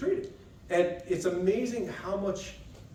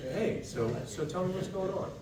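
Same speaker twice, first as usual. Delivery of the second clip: late night DJ voice; 4 semitones higher, 4 dB quieter than usual. Shown as a demonstration. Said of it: "late night D J voice ... almost a little forced soft".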